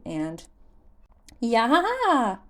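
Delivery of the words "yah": put-on high startled child's yelp; childish cry. Little forest spirit startled by Link's touch, high yelp. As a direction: squeal like a surprised little sprite. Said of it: "a childish voice cried".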